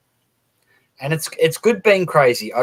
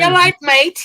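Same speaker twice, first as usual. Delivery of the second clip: much higher, chirpy Scouse greeting; Scouse accent; 5 dB louder than usual. Retold or imitated. Mocking Scousers to the group, high, excited Scouse accent. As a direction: imitate a Scouser sounding happy and excited. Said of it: "Scousers always sound like they're happy and excited".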